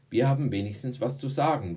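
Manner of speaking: fast, high, loud comeback; indignant retort. Acted. Emma hitting back at Brad's jibe, indignant retort. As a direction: jump in quickly and loudly.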